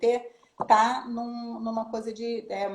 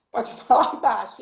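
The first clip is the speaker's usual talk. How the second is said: a laugh breaking into "falar baixo"; 6 dB louder than usual. Real, not acted. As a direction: laugh through the punchline. Conta a piada, rindo.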